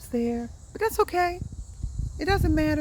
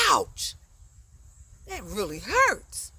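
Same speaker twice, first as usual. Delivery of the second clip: mild pained ouch; slower than usual. Shown as a demonstration. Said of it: "indicates you should show emotion".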